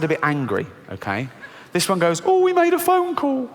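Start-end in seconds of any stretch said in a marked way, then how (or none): 2.2-3.5 high, slow, whiny mock. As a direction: whine it out sarcastically. Fearful voice mocking.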